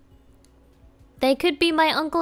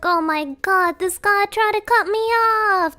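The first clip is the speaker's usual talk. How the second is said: raised, higher, louder complaint at a driver; retold yelling; 5 semitones higher, 3 dB louder than usual. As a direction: replay the uncle's road rage, half-shouted. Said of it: "you know, yelling in the car".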